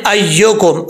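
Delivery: अय्युकुम said as "ayyokum", o for u; common misreading. Retold or imitated. Teacher quoting what people often read, wrong o vowel. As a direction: imitate learners' open o in अय्युकुम. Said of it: "अक्सर लोग इसको पढ़ते हैं".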